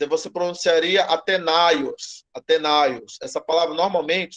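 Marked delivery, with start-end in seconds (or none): 1.0-3.2 "Atenaios" as one word, stressed on NAI; single-accent pronunciation. Shown as a demonstration. Teacher shows the word without the second accent, single stress. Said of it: "se não tivesse esse acento aqui".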